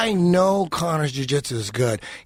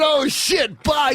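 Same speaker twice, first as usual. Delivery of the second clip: mocking shout; 10 semitones higher, slower than usual. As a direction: throw his words back at him. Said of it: "And I said".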